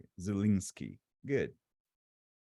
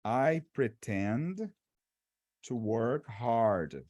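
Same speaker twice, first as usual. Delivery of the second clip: slow, word by word; slow halting English; 3 semitones lower, much slower than usual. Retold or imitated. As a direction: drag out each word carefully. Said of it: "o cara fala assim".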